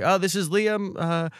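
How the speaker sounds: put-on high, polite girl voice; mock awkward girl; imitating the date. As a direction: pitch up for the date's awkward reply.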